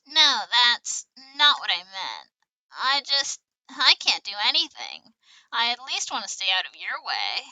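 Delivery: loud, projected character acting; children in game dialogue. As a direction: play the scene big and loud, line by line. Voices children in game scene.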